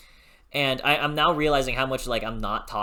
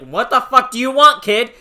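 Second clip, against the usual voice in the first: higher and louder, laughing through a mock outburst; mock annoyed snap; 10 semitones higher, 12 dB louder than usual. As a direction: play Ryoka snapping at a bratty kid. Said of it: "I'm like".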